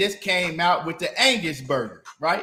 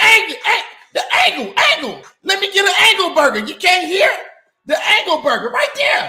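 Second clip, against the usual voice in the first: very high-pitched, raised, insistent voice; 13 semitones higher, 7 dB louder than usual. Retelling what a customer said when ordering: imitating a customer ordering. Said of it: "Then he just said".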